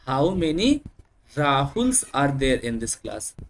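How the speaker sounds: Rahuls drawn out very slowly; slow demonstration. Shown as a demonstration. Teacher showing pupils the plural Rahuls, slow and drawn out. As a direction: linger on Rahuls to show the plural. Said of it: "नहीं बोलेंगे".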